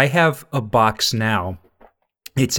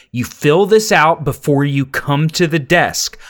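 firm, louder scolding clerk; stern clerk lecture; 4 semitones higher, 4 dB louder than usual. Retold or imitated. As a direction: lay down the rules firmly.

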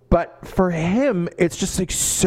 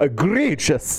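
laughing repeat; slower than usual. Real, not acted. Mocking the word egregious.

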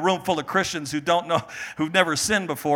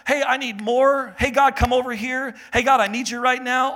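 mock summoning a waiter; 6 semitones higher than usual.

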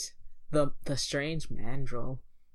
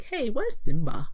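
acted puzzled call; 9 semitones higher, 6 dB louder than usual. Acts friends looking for Simba.

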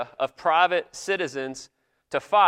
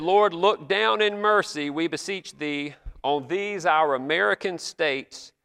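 slow, lifted solemn prayer reading; solemn old prayer; 3 semitones higher, slower than usual. Retold or imitated. Pastor reading an old Congress prayer to the congregation, slow and solemn. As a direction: intone it like an eighteenth-century pastor at prayer. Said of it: "I wish I could go around talking like this today".

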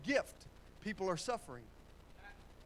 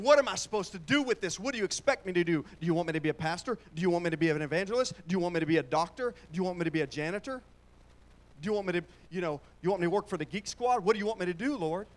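mock anxious questioning; 5 dB louder, faster than usual. Voices confused believer asking God.

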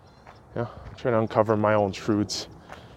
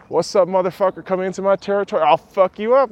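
raised mock gangster taunt; tough bird; 9 semitones higher, 5 dB louder than usual. Bird threatening an intruder, as a raised mock-thug voice. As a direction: play the bird as a street thug.

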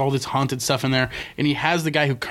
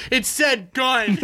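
high, drawn-out cry of amazement; mock freak-out; 9 semitones higher, much slower than usual. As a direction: imitate an overexcited ghost hunter, slowly. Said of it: "he's, like, freaking out".

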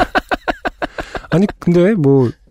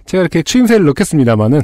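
husky, worn-out throat; hoarse voice; 2 semitones higher than usual. Real, not acted. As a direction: talk through a hoarse throat. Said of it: "목이 계속 잠길 것 같아요".

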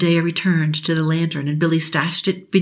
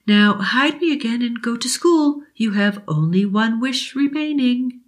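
put-on kind old genie; 6 semitones higher than usual. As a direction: promise it like a fairy godmother. Genie speaks.

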